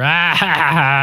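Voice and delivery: imitated old-boys cackle; mock cackle. Old boys' club mocking their colleague, fake cackle. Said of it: "they're all cackling".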